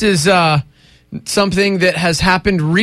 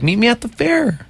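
higher, put-on commercial voice; commercial character impression; 5 semitones higher than usual. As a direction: act out the slogan, pitched up. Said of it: "so she's like".

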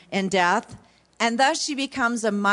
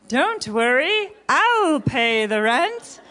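slow heroic reassurance; melodrama hero; 3 semitones higher, slower than usual. Acted. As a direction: deliver it like a gallant rescuer. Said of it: "So here we go".

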